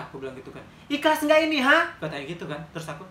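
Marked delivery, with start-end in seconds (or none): 0.9-1.9 loom over her, stretching every word; menacing challenge. Retold or imitated. Beggar woman repeating the challenge.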